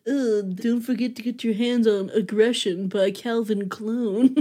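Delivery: lightly voiced perfume-ad announcer; perfume commercial voice. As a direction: parody a perfume commercial pitch. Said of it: "perfume commercial and then is like".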